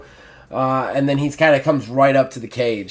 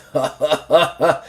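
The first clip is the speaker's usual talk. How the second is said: mock bull laugh, lightly voiced; a brutish chuckle from the bull; 3 semitones higher, 3 dB louder than usual. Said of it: "the bull just starts to laugh".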